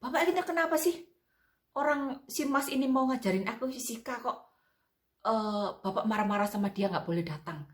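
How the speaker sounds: high, indignant complaint to father; mock-angry teenage daughter confronting dad; replaying how she scolded her father; retold angry protest. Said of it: "aku tanya bapakku sambil marah-marah".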